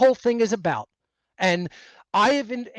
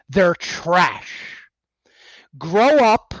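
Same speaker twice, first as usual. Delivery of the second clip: angry shout; 7 dB louder, slower than usual. Real, not acted. Ranting at followers, escalating.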